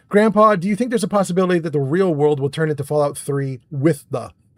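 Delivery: normal talking voice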